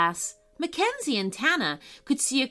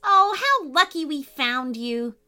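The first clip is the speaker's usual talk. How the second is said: put-on higher child voice, thrilled; a young fan starstruck; excited girl; 6 semitones higher than usual. Mackenzie recognizing the podcast reader, thrilled and high.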